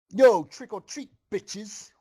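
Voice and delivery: loud, high rowdy yell. A narrator's reading. Costumed stallion heckling the ponies, loud high yell. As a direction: holler it like a street punk. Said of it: "one of them yelled out".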